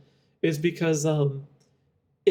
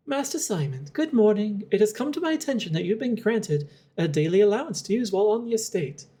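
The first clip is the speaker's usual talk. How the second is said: lightly voiced formal housekeeper, a bit higher; formal house manager; 4 semitones higher than usual. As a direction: read it like a polite butler's note. Reads in-game letter from house manager.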